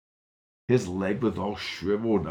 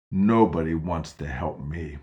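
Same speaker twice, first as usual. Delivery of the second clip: low, louder self-pitying grumble; grumbly; 3 semitones lower, 4 dB louder than usual. Acted. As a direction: sulk it out bitterly. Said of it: "he was getting grumbly".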